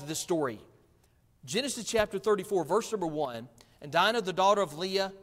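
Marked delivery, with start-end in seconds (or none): 1.4-5.1 brisk scripture reading; quick reading. Real, not acted. Preacher hurrying the congregation into the Genesis story, reading quickly. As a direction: read the verse quickly, moving right along. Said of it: "I'm gonna read quickly".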